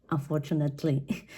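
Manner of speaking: unfortunately with "nat" fully sounded; old mispronunciation. Shown as a demonstration. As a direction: say "unfortunately" wrongly, as un-for-chu-NAT-ly. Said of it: "I was pronouncing this word like".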